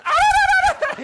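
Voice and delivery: very high, loud trilled ululation; joyful ululation. Retold or imitated. Wife greeting her husband home with a high ululation. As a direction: trill your tongue in a burst of joy. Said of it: "이렇게 하면 돼요".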